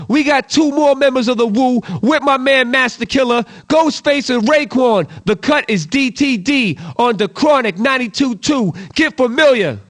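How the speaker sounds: punchy radio announcer read; radio DJ hype. Acted. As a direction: hype the track like a late-night hip-hop DJ. Radio DJ drop announcing tracks.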